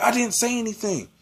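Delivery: high-pitched mock denial; retold protest. Accused student answering the teacher, high retold protest.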